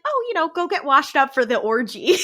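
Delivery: laughing through a cheeky joke; joking invitation, a laugh in the voice. Retold or imitated. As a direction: tease them with a laugh. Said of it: "as a joke".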